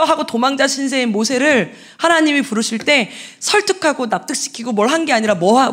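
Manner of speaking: ordinary talk, nothing marked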